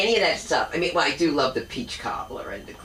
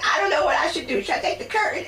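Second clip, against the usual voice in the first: flustered contestant; 13 semitones higher than usual. Retold or imitated. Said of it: "She was like".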